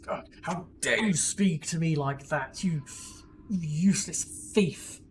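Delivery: slow, offended Horgus; indignant retort. Acted. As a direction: drag out the outrage. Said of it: "They're just bickering and arguing".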